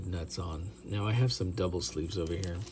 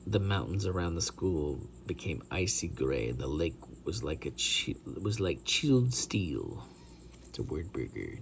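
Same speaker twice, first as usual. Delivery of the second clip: fake British accent; 4 semitones lower, 4 dB quieter than usual. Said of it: "my crap fake British voice".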